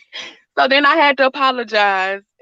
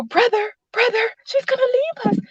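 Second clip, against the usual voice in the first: mock crying kids; 10 semitones higher than usual.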